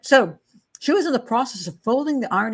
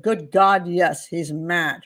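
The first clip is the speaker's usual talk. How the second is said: quoted statement; 2 semitones lower, much slower than usual. Retold or imitated. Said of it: "she said".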